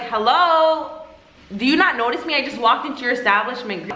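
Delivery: mock indignant greeting. Ignored customer to staff, mock indignant call. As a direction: act the ignored customer demanding notice.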